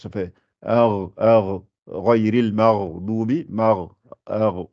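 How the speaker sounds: slow "ar, ghayril maghdubi" with a gargled gh; slowly gargle the gh in "ghayril maghdubi"; throaty rayn demo. Shown as a demonstration. Teacher demonstrates the rayn at the throat, slowly. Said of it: "au début de la gorge".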